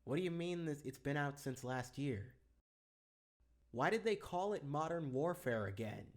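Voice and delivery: faint muttering from far away; distant aside. Acted. Distant muttered aside, much quieter.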